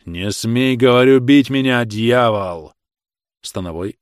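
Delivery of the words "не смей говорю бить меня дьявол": loud, furious warning; angry cry. A narrator's reading. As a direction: forbid him with real force, pushing the volume. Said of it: "раздался гневный крик Михаила". (гневный крик)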